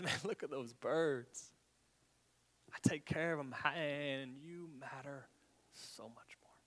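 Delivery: softening to a hushed close; gentle reassurance. Retold or imitated. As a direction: reassure them tenderly, fading to a whisper. Jesus voiced tenderly.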